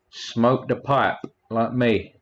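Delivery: slow, lingering mock seductive line; a lightly hammed-up sultry Brit; mock British porn star. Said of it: "like a British porn star".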